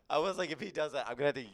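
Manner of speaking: giggling through the words; laughing while talking. Real, not acted. Laughing fit after mic joke.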